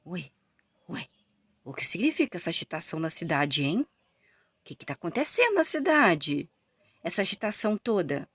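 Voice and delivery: puzzled, alarmed questioning; surprised Joabe. Acted. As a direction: sound caught off guard by the noise. Joabe startled by the noise.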